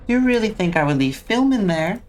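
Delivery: high, sneering villain voice; mocking creepy host. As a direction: taunt the player.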